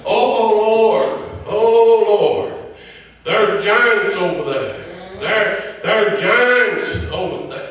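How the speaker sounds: hammed-up fearful moan about the giants; whining complainer. Preacher mocks the fearful spies with a whine. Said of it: "here come the whiners".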